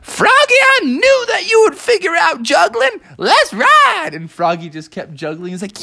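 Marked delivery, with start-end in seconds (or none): 0.0-4.1 excited moose. Acted. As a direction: cheer him on triumphantly. Moose cheers Froggy.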